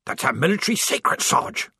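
fast, whiny complaint; whining. A narrator's reading. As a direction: whine it quickly. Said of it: "Strappy whined".

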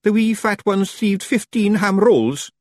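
high, slow Scots admiration; drawn-out, impressed Feagle voice; admiring. A narrator's reading. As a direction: marvel at it as a wee Scotsman. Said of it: "he added admiringly".

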